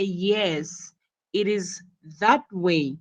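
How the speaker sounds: emphasis on the word "that"; stress on THAT. Shown as a demonstration. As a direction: make "that" the strong word. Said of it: "you have to emphasize".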